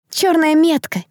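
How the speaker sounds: high, startled exclamation; awed murmur. A narrator's reading. Onlookers seeing the black mark, awed exclamation. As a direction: gasp it in fearful awe. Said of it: "зашептались вокруг".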